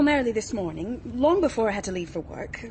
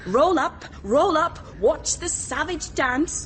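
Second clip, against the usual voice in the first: mock fairground barker; 4 semitones higher, slower than usual. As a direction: hawk it like a sideshow crier. Mocking Bernard like a showman.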